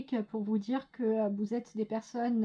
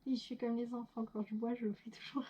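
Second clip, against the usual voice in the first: ordinary talk, nothing marked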